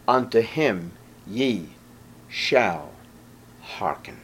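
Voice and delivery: sinking to a whisper; hushed drop. Acted. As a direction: let the words fall to a hush. Preacher drops to whisper on hearken.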